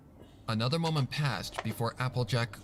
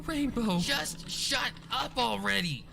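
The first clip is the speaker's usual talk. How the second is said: mild shout; 12 semitones higher than usual. A narrator's reading. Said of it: "Rainbow shouted".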